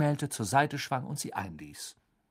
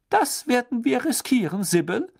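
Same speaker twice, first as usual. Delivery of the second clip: brisk, higher and louder; impatient; 11 semitones higher, 4 dB louder than usual. A narrator's reading. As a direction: cut her off impatiently. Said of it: "sagte Professor McGonagall ungeduldig".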